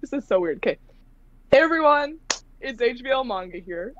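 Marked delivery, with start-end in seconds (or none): 1.5-3.9 bright upbeat channel greeting; YouTube intro voice. Shown as a demonstration. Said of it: "okay, here I go".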